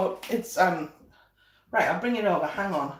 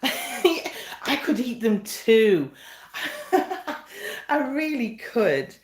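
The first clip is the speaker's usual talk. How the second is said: laughing; 2 semitones higher, much slower than usual. Real, not acted. Joking about eating the treats.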